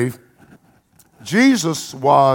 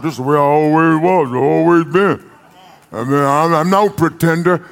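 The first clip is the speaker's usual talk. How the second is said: mock stubborn sinner. Preacher mimicking a stubborn churchgoer, light mocking voice. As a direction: parody the person who won't change. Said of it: "Stop saying stuff like".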